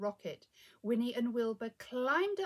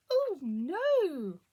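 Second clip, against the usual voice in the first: loud, swooping high wail; dismayed space rabbit; 4 semitones higher, 10 dB louder than usual. A narrator's reading.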